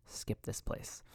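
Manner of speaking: whispered aside. Real, not acted. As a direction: drop to a secret whisper. Whispered aside about unhealthy food.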